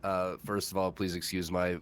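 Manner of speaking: stuffed-up nasal voice from the flu; nasally voice. Real, not acted. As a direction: talk through a blocked nose. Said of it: "please excuse my, my super nasally voice".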